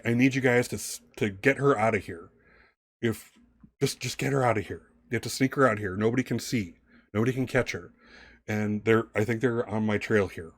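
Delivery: lightly acted hunted man, urgent. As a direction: plead for help in a hurry, mildly acted. Plays urgent man pleading for girl.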